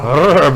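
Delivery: purr. Acted. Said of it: "just purr at your healing word".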